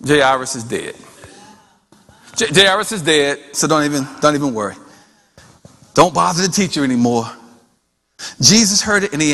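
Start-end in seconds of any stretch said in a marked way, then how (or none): 0.1-7.3 low-pitched, hushed-down messenger; subdued bad news. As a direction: break the death news gently. Messenger breaks news of death.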